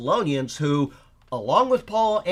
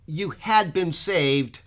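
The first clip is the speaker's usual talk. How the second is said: slow example; much slower than usual. Shown as a demonstration. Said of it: "I'm talking to you and you're saved. And I say".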